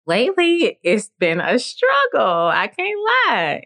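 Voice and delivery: voice cracking with emotion. Real, not acted. Admitting a hard season.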